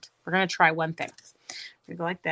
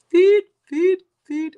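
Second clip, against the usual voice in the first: coaxing high feed; 10 semitones higher, 11 dB louder, much slower than usual. Real, not acted.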